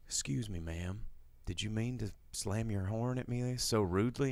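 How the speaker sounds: mock polite complaint. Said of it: "He's just like".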